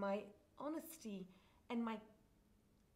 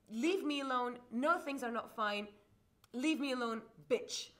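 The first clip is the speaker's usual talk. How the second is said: retold angry phone call; 6 dB louder, slower than usual. Guy arguing on the phone.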